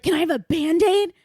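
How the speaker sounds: lightly voiced needy client; quoted client. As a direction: ask for a Band-Aid in a put-on voice.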